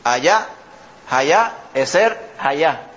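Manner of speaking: allá said haja with a breathy h; Hebrew sounding. Shown as a demonstration. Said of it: "Lo que quiere decir".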